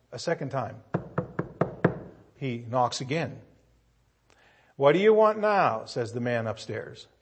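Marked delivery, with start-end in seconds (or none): 4.8-5.9 annoyed retort. Acted. Annoyed man upstairs.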